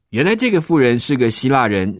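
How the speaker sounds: plain reading voice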